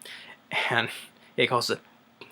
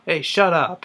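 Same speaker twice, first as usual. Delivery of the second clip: imitated shut up; 5 semitones higher, slower than usual. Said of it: "how he says".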